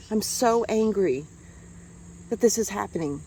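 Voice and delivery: seething slowly about the killing; real slow anger. Real, not acted. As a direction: drag each word out with anger.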